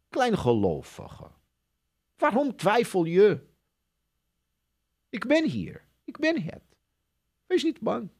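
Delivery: put-on calm them like a frightened child; gentle reassurance. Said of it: "wat de Heer Jezus tegen ons zegt".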